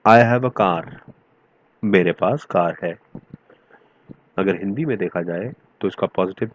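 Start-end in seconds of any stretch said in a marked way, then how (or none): 0.1-1.1 "I have a car" stretched out very slowly and louder, each word set apart; slow, loud teacher's model sentence; slow example sentence. Shown as a demonstration. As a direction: read "I have a car" slowly and loudly, word by word, so the class can follow. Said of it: "एक और sentence".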